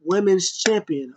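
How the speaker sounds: high, taunting mock voice; imitating Sasha. Vlogger imitating Sasha taunting Shayna, high and cocky. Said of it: "She was like".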